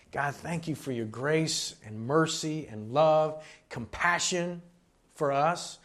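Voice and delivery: earnest, projected prayer with pauses; public prayer. Real, not acted. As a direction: pray aloud for the congregation, phrase by phrase. Leads closing prayer.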